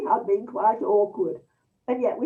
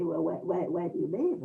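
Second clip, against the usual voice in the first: hesitant question; 3 semitones lower, 4 dB quieter than usual. Retold or imitated. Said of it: "this slight hesitancy".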